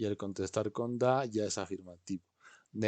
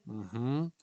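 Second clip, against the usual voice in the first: ordinary delivery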